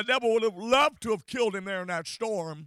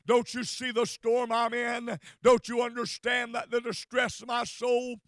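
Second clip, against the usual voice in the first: crying out to God. Retold or imitated. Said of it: "weeping and crying and saying".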